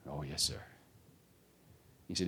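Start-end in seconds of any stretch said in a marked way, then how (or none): 0.1-0.6 very soft, higher-pitched reply; small, submissive retold answer; meek schoolboy. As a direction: agree timidly to an intimidating master. Acts cowed boy answering master.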